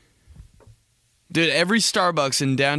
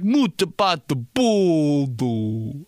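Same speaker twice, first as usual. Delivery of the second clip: very slow, dragged-out mock Italian; dad speaking Italian; much slower than usual. Dad thinking he's cool speaking Italian, drawn-out mock voice. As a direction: drag out every vowel, imitating dad. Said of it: "My dad was like".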